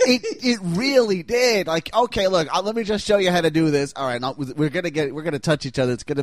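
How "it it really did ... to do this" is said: lightly voiced pushy demonstrator; higher, louder and fast; Geraldo impression. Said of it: "Geraldo's demonstrations".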